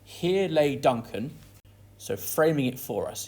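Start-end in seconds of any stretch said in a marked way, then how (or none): 0.0-1.4 Here drawn out slowly to set the scene; dramatic scene-setting. Shown as a demonstration. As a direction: point out the spot slowly. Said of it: "very dramatically he sets the scene".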